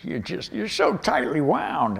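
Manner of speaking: soothing, unhurried teacher; mellow mentor. Retold or imitated. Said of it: "And he'd be like".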